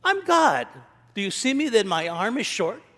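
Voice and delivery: God firing sarcasm back; God answering Moses' sarcasm, a hint of mock authority; lightly voiced God. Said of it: "I'll ask you a question".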